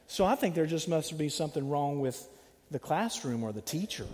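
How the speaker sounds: put-on a mother insisting her boy never lies, to the teacher; defensive parent. Mother at the school meeting protesting, prim and soft.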